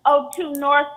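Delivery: usual speaking voice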